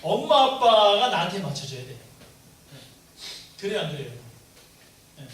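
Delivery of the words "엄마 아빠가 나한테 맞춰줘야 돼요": 엄마 아빠가 said loud and pressing; preacher mimicking a child's demand, loud; emphatic. Shown as a demonstration. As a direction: push 엄마 hard, a child's demand. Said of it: "어린아이들이 어릴수록 어떠냐면".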